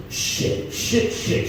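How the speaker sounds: whispered panicked shit, shit; hissed inner panic under the breath. Retold or imitated. His panicked inner monologue, whispered. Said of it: "my inner monologue was this".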